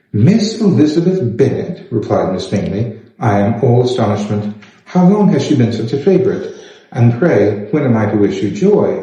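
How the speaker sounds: a hint of arch, needling surprise; astonished Miss Bingley.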